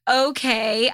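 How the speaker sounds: normal talking voice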